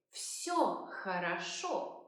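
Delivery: slow, careful teacher's model; slow model phrase. Shown as a demonstration. Teacher modelling the answer slowly. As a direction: say it slowly for learners. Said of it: "You might also say".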